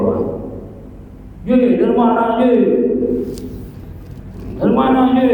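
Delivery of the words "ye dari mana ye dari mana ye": distant calling out. Retold or imitated. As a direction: call out to a neighbour far off. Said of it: "ngobrol lima puluh meter".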